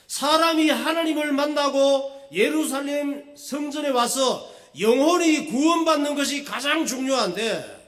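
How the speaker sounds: loud, high-pitched sermon delivery; full-force preaching. Real, not acted. Pastor warning the congregation about misplaced obsession, full-force preaching. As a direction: drive the warning home to the congregation, loudly.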